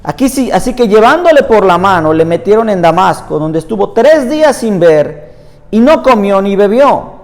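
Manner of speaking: measured, emphatic Bible reading aloud; scripture reading. Acted. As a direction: read the passage out to a congregation, phrase by phrase. Reads Bible passage aloud.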